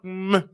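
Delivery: imitated kiss noise; kiss smack. Showing his first clumsy kiss, imitated kiss noise. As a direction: make a drawn-out "mwah". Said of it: "this is how you kiss".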